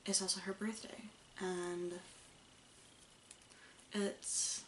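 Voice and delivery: talking around a stitch marker; something held in mouth; mouth full. Real, not acted. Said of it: "you can't take me seriously with a stitch marker in my mouth".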